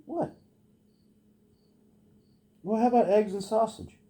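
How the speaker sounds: high, bright tease to the dog; squeaky excited doggy talk; excited pet talk. Real, not acted. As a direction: get the dog excited about food. Teasing the dog about food.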